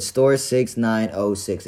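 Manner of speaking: imitating a clerk reading it out slowly; slow recital. Clerk giving the store email to a customer, slowly. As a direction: spell it out slowly, piece by piece. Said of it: "he said it slowly".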